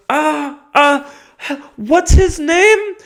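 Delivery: high, loud, whiny helpless owner; hammed-up falsetto dithering owner; flustered dog owner. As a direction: squeal like a useless owner in a panic. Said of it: "he'd go".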